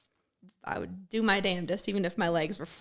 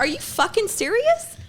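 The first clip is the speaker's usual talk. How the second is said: much higher, louder, slow outraged disbelief; incredulous shout; 13 semitones higher, 9 dB louder than usual. Retold or imitated. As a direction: yell it in total disbelief. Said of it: "That's how I'm like".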